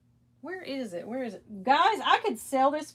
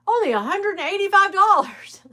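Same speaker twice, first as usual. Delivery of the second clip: tempting listing; 9 semitones higher, 7 dB louder than usual. Retold or imitated. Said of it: "and it'll say".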